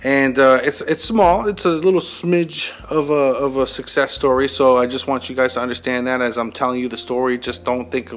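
wired and jittery, rushing words; too much caffeine. Real, not acted. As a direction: talk like you've had too many coffees. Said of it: "I'm fucking wired right now".

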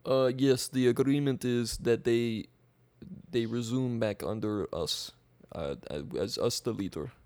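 halting put-on Russian accent. As Russia answering about a border agreement, Russian accent. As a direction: speak as a Russian leader. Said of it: "This is authentic Russian accent".

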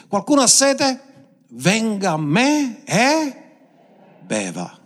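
proclaimed high and slow, fading at the end; exclaiming invitation. Acted. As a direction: call out the invitation, then settle. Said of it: "esclamò dicendo".

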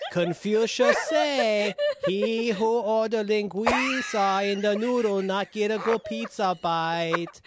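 slow, broken mock Asian accent; a hammed-up fake Asian accent, drawn out. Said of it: "Are you supposed to be Korean?".

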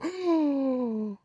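long, high gasp; exaggerated drawn-out gasp. Drawn-out noise after razzle dazzle.

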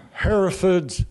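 "Herefords" as HERR-uh-fudz; English pronunciation. Shown as a demonstration. Naming cattle the English way, "Herefords" as HERR-uh-fudz. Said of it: "in England, they call it Herefords".

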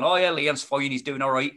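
a lightly put-on, badly done West Country accent; a mate's West Country voice, mimicked half-heartedly and badly. Mimicking his army mate's reply in a bad West Country accent. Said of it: "that was a really bad West Country accent".

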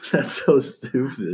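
slow put-on dude voice; slow mock bro voice. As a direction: draw it out, lazy and amused. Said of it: "I was like".

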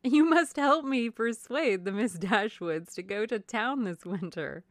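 high, loud, slow wifely appeal; coaxing society wife; effusive Mrs. Palmer. A narrator's reading. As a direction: plead gushingly, settling by the end.

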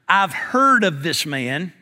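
slow, measured report to the Lord; earnest telling. Acted. Ananias tells the Lord what he has heard, earnest. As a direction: state it soberly and slowly. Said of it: "Ananias telling the Lord".

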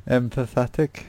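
"Empathetic" with an extra syllable, em-puh-THET-ic; mispronounced attempt. Real, not acted. Quiz reader stumbling on a word, a questioning "Empathetic". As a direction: say "Empathetic" unsurely, rising at the end. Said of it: "that's not how you say it".

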